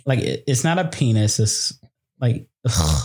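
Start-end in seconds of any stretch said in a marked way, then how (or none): 2.2-3.0 disgusted. Real, not acted. Disgust at the word.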